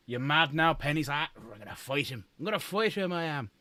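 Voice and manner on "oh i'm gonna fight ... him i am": light mock Irish accent, fight talk. Voicing Penny wanting to fight, light mock Irish accent. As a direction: play a scrappy Irishman spoiling for a fight, lightly. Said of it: "suddenly become Irish".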